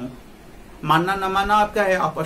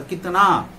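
कितना with a long, louder final ना; drawn-out vowel; 2 semitones higher, 5 dB louder, much slower than usual. Shown as a demonstration. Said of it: "मात्रा ही हो जाता है". (कितना का 'ना' लंबा खींचकर)

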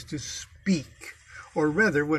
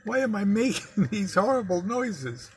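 frustrated inner cry; 6 semitones higher than usual. Retold or imitated. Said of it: "I always think".

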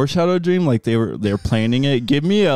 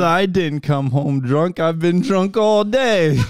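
put-on slow drunk line; 5 semitones higher, slower than usual. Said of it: "He said".

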